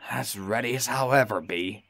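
lightly grim, grudging reply; darkly. Acted. James grumbling to Toby, a hint of darkness. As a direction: say it with sour doubt. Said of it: "he said darkly".

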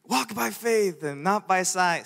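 slow, drawn-out church exhortation; imitated preacher. Preacher exhorting a passive churchgoer, slow mock proclamation. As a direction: lightly put on a preacher's proclaiming voice.

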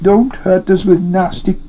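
high, wailing creature voice; tearful begging, pitch leaping high; weeping Gollum. A narrator's reading. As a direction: wail and plead pitifully. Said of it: "he wept".

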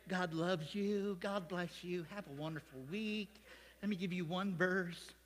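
slow, soft, sweetly gentle parody; mock soothing preacher. Imagined pastor blessing the congregation at another church, mock-gentle. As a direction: softly croon it like an easygoing preacher. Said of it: "another church where they just say".

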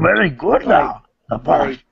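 put-on little-sage impression; Yoda. Sage praising a young Padawan, put-on creature voice. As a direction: praise in halting creature-voice phrases. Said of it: "try to do a Yoda voice".

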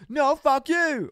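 high, loud, drawn-out retort; mock angry comeback. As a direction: play the heckled hippie shouting back. Imagined hippies shout back.

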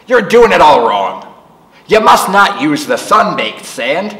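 gruff scolding. Acted. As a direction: bark the correction at her. Grumpy neighbour correcting girl.

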